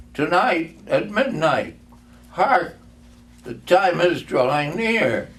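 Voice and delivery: loud, high, ominous ghost; solemn ghost warning. Acted. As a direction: proclaim the coming hour. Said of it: "replied the ghost".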